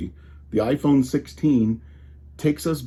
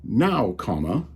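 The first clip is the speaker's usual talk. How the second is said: measured dictation, saying comma aloud; dictating to voice-to-text, every word spelled out; careful dictation voice; 4 semitones higher than usual. Shown as a demonstration. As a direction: spell out the punctuation like talking to the phone. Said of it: "is how I would say this".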